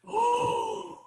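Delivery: a high, amazed "Oh" dropping to a soft "wow"; stunned realization. Retold or imitated. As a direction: sound floored by the insight. Stunned by her advice.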